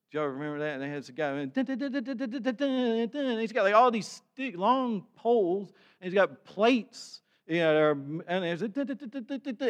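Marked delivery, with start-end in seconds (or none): 1.5-3.4 high hummed dun dun circus music; humming circus tune. Retold or imitated. Humming plate-spinning act music. 8.9-9.7 high hummed dun dun circus music; humming circus tune. Retold or imitated. Humming plate-spinning act music.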